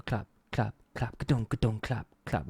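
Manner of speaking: short spaced offbeat syllables; beatbox the claps and kicks in rhythm; imitated clap beat. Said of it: "then you have the clap".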